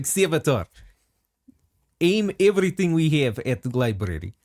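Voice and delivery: put-on Russian accent; commander's order in a mock Russian accent. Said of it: "tried to do the Russian accent".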